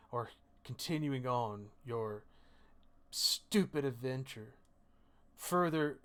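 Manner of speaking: slow, measured mother's reproach, lightly voiced; a grave ultimatum, unhurried, with weighted pauses; stern mother. Mother making her child choose between family and adventure, slow reproach. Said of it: "She says to you".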